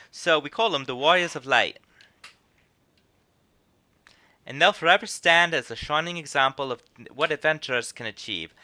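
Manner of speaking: British lilt leaning Scottish; slightly Scottish English accent. Acted. Innkeeper honours the Warriors of Light, slightly Scottish accent. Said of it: "a little more Scottish than English".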